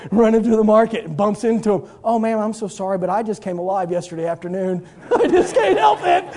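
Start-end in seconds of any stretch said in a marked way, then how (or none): 2.0-6.2 put-on little girl apologizing. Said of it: "here comes the little girl".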